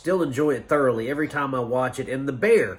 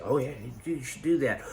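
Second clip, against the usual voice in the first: snide; 2 semitones lower, 5 dB quieter, faster than usual. Retold or imitated. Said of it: "some kind of snide comment".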